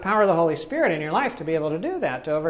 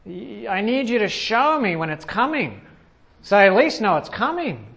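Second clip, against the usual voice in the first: retold prayer. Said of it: "praying to the Lord and saying".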